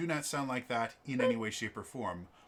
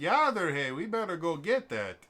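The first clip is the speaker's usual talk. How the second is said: put-on Yooper accent; 3 semitones higher than usual. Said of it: "And I was like".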